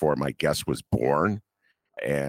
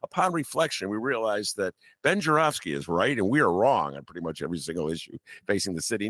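mock newspaper voice; 6 semitones higher than usual. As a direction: pretend the paper is admitting it. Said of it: "as though they said".

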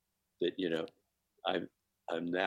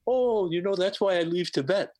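very high, louder laughing mimic; very high, delighted imitation; 11 semitones higher, 4 dB louder than usual. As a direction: squeal the joke out while cracking up. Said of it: "And he goes".

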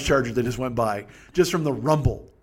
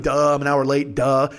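a hint of a lower, dopey voice; mock stupid self; 4 semitones lower than usual. Mocking himself for being late, mock stupid. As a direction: lightly play yourself as an oblivious dolt. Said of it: "it's stupid me. I'm just like".

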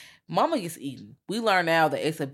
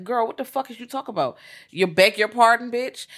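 higher-pitched, mock-affronted comeback; acted indignation; 6 semitones higher, 4 dB louder than usual. Guest answering back to the butler, acted indignation. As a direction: act out being offended by an order.

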